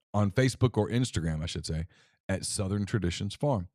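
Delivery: relaxed sponsor read. Acted. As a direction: talk up the farm like a host reading a sponsor.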